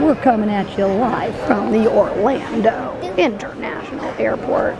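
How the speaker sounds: lightly put-on radio host announcing. Mom playing host introducing her daughter at the airport, radio host. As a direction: introduce a guest like a live broadcast. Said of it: "my accent just changed from radio host".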